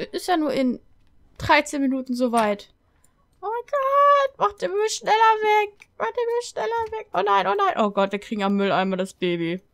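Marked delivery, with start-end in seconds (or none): 3.4-7.7 high-pitched frantic pleading; panicked. Real, not acted. Panics as birth starts at bin. 7.8-9.6 low, contained dismay; understated horror at first; dismayed realization. Real, not acted. First realization of birth at bin.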